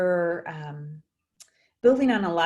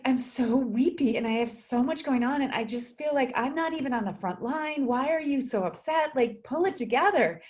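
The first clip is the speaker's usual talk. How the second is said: imitating weepy client; 5 semitones higher than usual. Coach imitates her client, a touch weepy and pitched up. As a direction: play the overwhelmed nurse scolding herself, a touch teary. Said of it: "and she's like".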